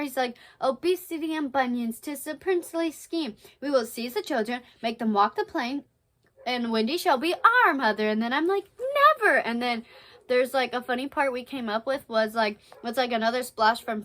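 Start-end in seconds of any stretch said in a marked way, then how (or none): 0.6-8.1 lightly dramatized pirate speech; amateur play-reading of a villain; scheming stage captain. Acted. 9.2-9.4 short stagy exclamation; play-acted defiant cry; acted defiance. Wendy's defiant refusal in play.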